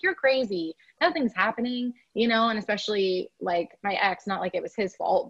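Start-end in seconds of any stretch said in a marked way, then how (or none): 0.0-1.9 higher, dismissive voice of inner doubt; doubting ego voice. Retold or imitated. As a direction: lightly imitate a scoffing inner critic. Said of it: "my ego came in and was like".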